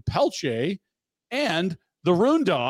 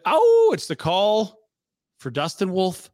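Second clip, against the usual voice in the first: hyped announcement; 4 semitones higher, 5 dB louder, slower than usual. Acted.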